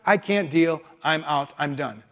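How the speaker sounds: hammed-up tantrum that trails off into a sulk; a put-on fit of pique, ending deflated; mock angry Jonah. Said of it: "He is so angry".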